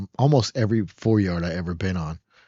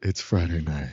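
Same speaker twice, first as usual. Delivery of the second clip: slow, low radio DJ voice; smooth late night DJ; 4 semitones lower than usual. Acted. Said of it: "the late night radio voice".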